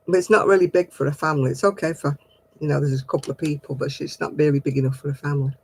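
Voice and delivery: talking through a mouthful; words round a bite of food; chewing while talking. Real, not acted. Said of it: "Sorry, I'm chewing".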